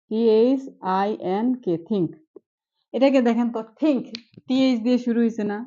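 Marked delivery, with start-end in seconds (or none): 1.9-2.1 "think" begun with a breathy dental থ. Shown as a demonstration. Teacher demonstrating th in think to students. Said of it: "টি এইচ টাকে কি থ এর মতো উচ্চারণ হচ্ছে". 3.8-4.0 "think" begun with a breathy dental থ. Shown as a demonstration. Teacher demonstrating th in think to students. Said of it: "টি এইচ টাকে কি থ এর মতো উচ্চারণ হচ্ছে".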